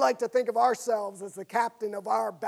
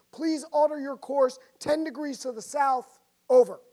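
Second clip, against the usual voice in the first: captain radioing; 4 semitones higher, 6 dB louder than usual. Acted.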